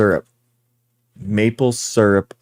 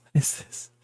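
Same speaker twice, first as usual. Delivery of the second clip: amazed whisper; 9 dB quieter than usual. Retold or imitated. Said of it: "it's like".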